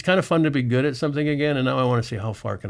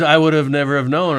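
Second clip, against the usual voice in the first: amazed; 4 semitones higher, 7 dB louder than usual. Retold or imitated. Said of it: "She goes".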